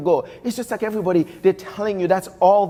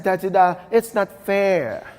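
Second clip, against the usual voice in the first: put-on little kid voice; 2 semitones higher than usual. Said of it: "In my little kid voice".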